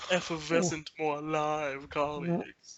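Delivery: slow, lightly snooty drawl. Retold or imitated. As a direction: sniff it like a snob. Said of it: "do a snooty voice".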